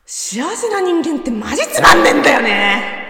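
replayed clip.

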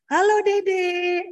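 put-on high, drawn-out singsong hello to a little child; loud, lilting phone hello; cheery parent greeting. Shown as a demonstration. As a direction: stretch it out brightly and sweetly. Models phone greeting to small child.

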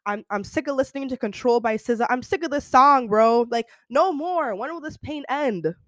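hammed-up, anguished complaint; fed-up outburst. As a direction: act dramatically sick of the heartbreak. Acts out being fed up with heartbreak.

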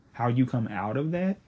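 ordinary talk

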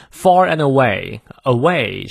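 slow, drawn-out away in two syllables. Shown as a demonstration. Teacher models two-syllable "away" for learners, careful slow pronunciation. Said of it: "双音节的away啊".

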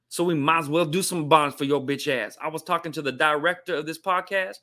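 put-on African American vernacular accent; Ebonics. Shown as a demonstration. Host granting a viewer's request after Black History Month, Ebonics accent. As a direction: play up the Ebonics rhythm and swagger. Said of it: "All right, do some Ebonics".

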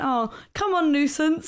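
playful nudge to a stubborn companion; mock coaxing. Coaxing a leg, retold.

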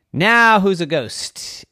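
slow, high, loud taunt; gloating payback. A narrator's reading. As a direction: throw the tease back at him slowly. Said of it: "and said".

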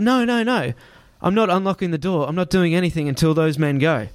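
high, firm scared no; refuse, frightened but firm; panicked refusal. Retold or imitated. Man refusing to unlock the car door, panicked.

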